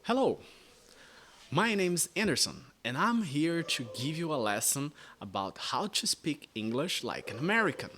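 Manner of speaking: bright, high American greeting; American accent. Shown as a demonstration. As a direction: open like an upbeat American host. Teacher shows American intro. (sotaque americano animado)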